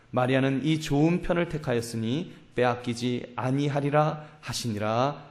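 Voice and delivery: measured, solemn Bible reading voice; scripture reading. Acted. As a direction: read the verses out like a pulpit lesson. Reads Luke 10 scripture aloud.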